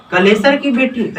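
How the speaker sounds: lifted, startled question; as if she can't believe the news; surprised. A narrator's reading. Lilavati hearing of the wedding, mildly surprised. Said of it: "ऐसा आश्चर्य होकर बोलती है".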